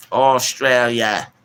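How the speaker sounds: badly faked Australian accent, stretched out. Streamer shouting out Australia, terrible mock Australian accent. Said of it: "Don't get me doing that accent".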